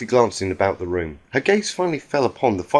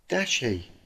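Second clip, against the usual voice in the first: a soft, grieving moan, much softer; low moan; 2 semitones higher, 7 dB quieter than usual. A narrator's reading. Pinkie Pie moaning her lost friend's name, softly. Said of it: "Applejack heard her moan".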